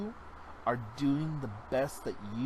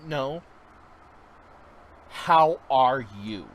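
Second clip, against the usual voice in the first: sincere question; 10 dB louder, slower than usual. Retold or imitated. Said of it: "I'm like".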